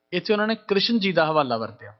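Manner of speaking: ordinary talk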